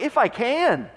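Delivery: a touch of hurt disbelief, not angry; slow, incredulous retort with gaps between phrases; mild frustration, indignant but held back; mildly frustrated. Acted. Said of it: "with a little bit of frustration".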